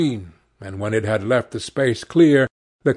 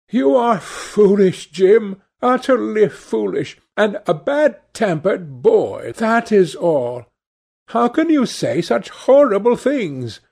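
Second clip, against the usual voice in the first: scolding sister; 6 semitones higher than usual. A narrator's reading. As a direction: chide the bad-tempered boy. Sibyl scolds Jim.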